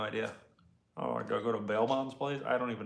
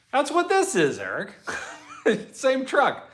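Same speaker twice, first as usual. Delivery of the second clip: calling out; 13 semitones higher, 4 dB louder than usual. Real, not acted. Answering Eric's comment.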